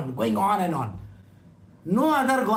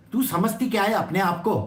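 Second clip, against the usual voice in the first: rapid-fire mock outburst; upset retort; much faster than usual. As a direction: fire it off fast like an offended friend. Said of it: "Sri Dama also gets very upset".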